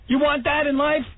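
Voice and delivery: high, slow mock torment; a hammed-up cry of misery, high and slow; mock anguish. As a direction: whine it like a martyr. Mocking his own torture.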